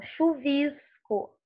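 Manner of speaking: "chuvisco" as chu-VISS-co, São Paulo plain S; São Paulo accent. Shown as a demonstration. Teacher imitating Paulistas for students, São Paulo S in "chuvisco". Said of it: "esse chiado".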